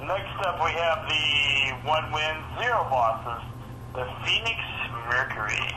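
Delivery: sports announcer reading the records; lightly hyped matchup call; announcer intro. Acted. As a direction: introduce the teams like a broadcast.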